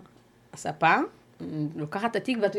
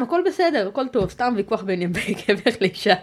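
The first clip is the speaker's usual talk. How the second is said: mock casual husband; 3 semitones higher than usual. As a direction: play down the fight with a false easy tone. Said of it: "והוא אמר להם". (חיקוי קליל ומזויף של הבעל)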